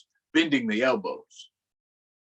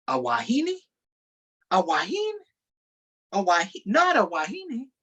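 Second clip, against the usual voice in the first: put-on stunned boys; 10 semitones higher than usual. Boys stunned a girl joined.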